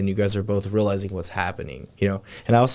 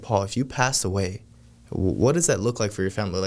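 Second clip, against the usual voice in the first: with conviction. Shown as a demonstration. Salesman asking Paul about his family after death, with conviction. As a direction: ask it sincerely and let it weigh. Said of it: "just really have the conviction".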